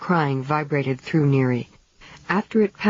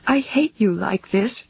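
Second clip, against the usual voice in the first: hissing; 5 semitones higher than usual. A narrator's reading. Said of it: "she hissed".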